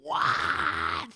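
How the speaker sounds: a sudden low shouted what; shocked shout. Retold or imitated. A woman hearing her cousin catfished her, shocked shout. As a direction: shout it in total disbelief. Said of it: "she's like".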